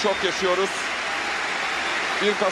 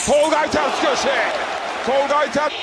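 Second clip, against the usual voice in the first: shouting commentator. Real, not acted. Goal called, shout heard.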